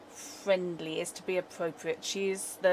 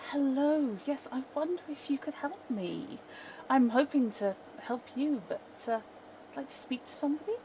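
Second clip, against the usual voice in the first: higher-pitched, polite visitor voice; friendly character voice, pitched up; pleasant, friendly; 5 semitones higher than usual. Acted. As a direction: greet them pleasantly, genuinely interested. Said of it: "pleasant and genuinely interested in people".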